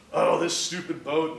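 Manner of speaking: drawn-out mock exasperation; flustered. Boater cursing the motor that won't start, acted fluster. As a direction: groan it out slowly at a useless machine. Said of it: "I'm getting all flustered".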